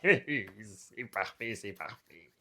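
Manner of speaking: slow, low chuckling satisfaction; pleased chuckle. Acted. Onlooker enjoys the pell-mell landing, chuckling low.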